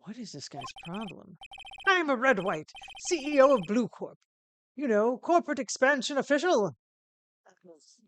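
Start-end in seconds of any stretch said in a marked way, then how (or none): 1.9-6.8 loud, higher, grand CEO voice; Red White, self-important. Acted. CEO introducing himself to a lawyer, pompous and loud. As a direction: announce yourself with pompous pride.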